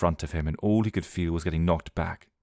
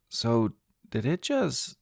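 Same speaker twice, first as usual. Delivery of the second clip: high, slow, halting question that fades; too scared to finish the thought; fearful trailing off; 7 semitones higher, slower than usual. Acted. Peggy asking about the creature, trailing off in fear. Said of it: "trailed off Peggy".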